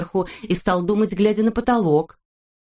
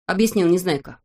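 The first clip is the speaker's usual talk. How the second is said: usual speaking voice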